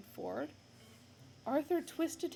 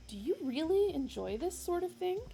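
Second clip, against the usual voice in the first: higher, louder probing question; mildly louder curious ask; Ford asking; 8 semitones higher, 5 dB louder than usual. Acted. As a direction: lean into really. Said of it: "he asked suddenly".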